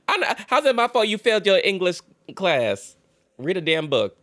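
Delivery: high sneering put-on voice of the boyfriend; mocking boyfriend. Creator mocks the boyfriend's line, high and sneering.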